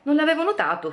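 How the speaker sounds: lightly voiced dazed young man, pitch up; dazed Andrea. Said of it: "come emergendo da un sonno profondo".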